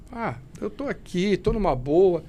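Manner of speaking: louco gritado bem mais alto; bravata de drogado. Retold or imitated. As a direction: se gabe como quem está chapado. Imita a si mesmo drogado. (recriando a própria euforia da droga)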